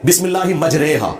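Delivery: "मजरेहा" recited majrey-ha, with a long E; majhul vowel exception. Shown as a demonstration. Showing the Quran's one exception, "मजरेहा" with long E. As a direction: hold an E, not ee, in "मजरेहा". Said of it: "आपने मजरीहा नहीं पढ़ना".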